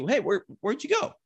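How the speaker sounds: high, puzzled animal voice; voicing the bull. Bull looking for the spike that ran off, high puzzled call. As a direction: call after a missing companion. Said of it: "he comes back out of the timber to see".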